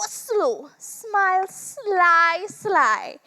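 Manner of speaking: "slow" stretched long with a falling tune; drawn out slow. Shown as a demonstration. Witch dragging out "slow" for the man, long falling "slow". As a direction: draw out "slow" like the turn itself. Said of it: "turn around slow".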